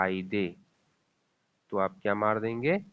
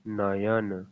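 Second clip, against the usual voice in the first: slow sounded-out word; much slower than usual. Shown as a demonstration. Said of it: "अय का उच्चारण हुआ".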